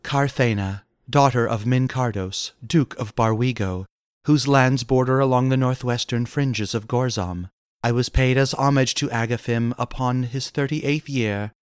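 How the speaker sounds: softly voiced noblewoman; a touch of husky damsel; husky femme. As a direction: introduce yourself in a soft, husky murmur. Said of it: "husked the femme".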